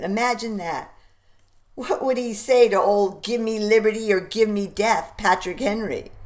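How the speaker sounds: a hint of a blustery pompous doctor; blustery pompous mayor. Warren voiced by narrator.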